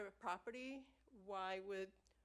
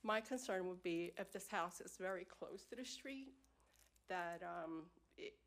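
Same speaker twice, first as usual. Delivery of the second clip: steady voice with shaky moments; 5 dB louder than usual. Real, not acted. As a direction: voice wavering with feeling. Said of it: "I'm a little emotional".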